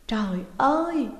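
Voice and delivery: distressed exclamation. A narrator's reading. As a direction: lament aloud in distress. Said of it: "Bà ta cứ luôn miệng kêu trời".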